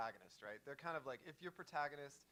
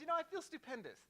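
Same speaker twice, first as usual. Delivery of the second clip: Jeff Goldblum impression; 5 semitones higher, faster than usual. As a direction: gush it like a giddy scientist. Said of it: "And he goes".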